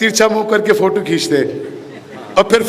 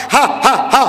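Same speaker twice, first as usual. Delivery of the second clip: staged ha-ha-ha of jeering relatives; mock mocking laughter; 3 semitones higher than usual. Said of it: "मुंह फाड़ फाड़ के हंसेंगे".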